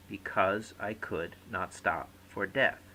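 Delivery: "Because I could not stop for death" stressed on every other syllable; natural rise and fall of "Because I could not stop for death", every second syllable stressed; alternating stress. Shown as a demonstration. Teacher reading a verse example, "Because I could not stop for death" stressed on alternate syllables. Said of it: "every other syllable is naturally stressed".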